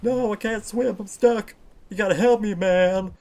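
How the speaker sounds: stuck and scared, pleading; panicked pleading. Acted. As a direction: beg for help in a panic.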